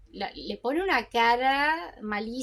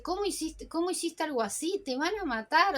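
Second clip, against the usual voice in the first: desperate; 4 semitones higher than usual. Retold or imitated. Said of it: "está desesperada y le dice".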